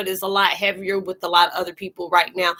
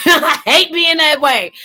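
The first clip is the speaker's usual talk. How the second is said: high, loud, slow laughing words; emotional laugh; 10 semitones higher, 6 dB louder than usual. Real, not acted. Reader admits to chat she is in her feels, emotional laugh. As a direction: laugh through welling feelings. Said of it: "got me in my feels".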